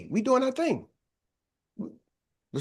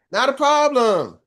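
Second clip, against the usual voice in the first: drawn-out, louder, higher breezy brush-off; breezy reassurance; 5 semitones higher, 5 dB louder, slower than usual. Acted. Organizer shrugging off yet another schedule change, breezy. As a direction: stretch it out like it's no trouble.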